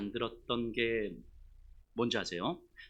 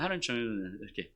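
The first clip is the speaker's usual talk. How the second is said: lower, indistinct reluctant mumble; mushy mumbled prayer; 7 semitones lower than usual. Acted. Praying only out of duty, mumbled. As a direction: let the words dissolve as you pray. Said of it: "흐물흐물 이렇게 기도하는".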